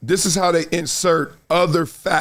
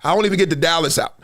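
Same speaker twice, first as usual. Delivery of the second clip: put-on kids yelling; faster than usual. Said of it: "I say".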